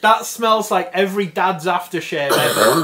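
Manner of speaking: laughing. Real, not acted. Sniffing the scented pop.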